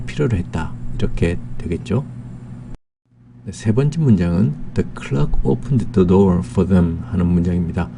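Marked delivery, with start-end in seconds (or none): 4.7-7.0 very slow, word by word English sentence; slow dictation reading. Shown as a demonstration. Teacher reading the second example sentence to students, very slow. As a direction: spell it out slowly for learners.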